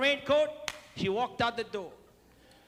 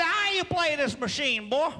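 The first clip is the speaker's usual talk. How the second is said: put-on Mississippi accent; 3 semitones higher than usual. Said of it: "obviously from Mississippi, 'cause he talked like that".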